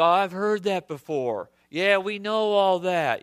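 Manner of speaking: slow, drawn-out imitation of unimpressed children; mock jaded kids. Father imitating his children hearing Scripture again, mildly jaded. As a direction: lightly act out kids who've heard it all.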